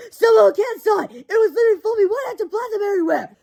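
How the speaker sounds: put-on frightened girl warning everyone; panicked cry. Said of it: "cried Wendy Swan".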